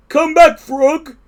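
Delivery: high, loud, drawn-out plea; shouting. A narrator's reading. Toad begs vanished Frog to return, high shout. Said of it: "he shouted".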